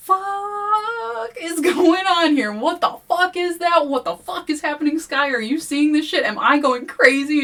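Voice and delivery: very high, loud, stretched panic; panicked freakout. Retold or imitated. William seeing the bone creature, high loud panic. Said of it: "William is like".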